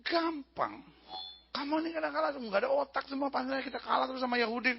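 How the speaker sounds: acted officer's rebuke; scolding general. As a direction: lecture the hapless troops. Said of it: "Dia bilang".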